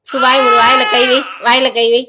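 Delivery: loud, insistent repeated commands; real scolding, pitch jumping up at its peak; firm loud hushing. Real, not acted. Hushing the crying child over the wailing.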